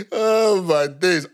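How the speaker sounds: laughing hard, slow and drawn out; cracking up at own story. Real, not acted. Laughing while retelling the shop showdown to a friend.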